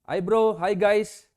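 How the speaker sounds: breezy, easygoing hey-bro tone; relaxed casual greeting. Retold or imitated. Preacher demonstrating a relaxed way to share good news. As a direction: toss it off like greeting friends. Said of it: "Misalnya begini".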